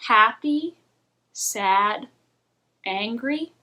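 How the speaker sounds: same flat tone for each emotion word; flat monotone. Shown as a demonstration. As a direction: read every feeling word identically. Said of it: "It's all just like this".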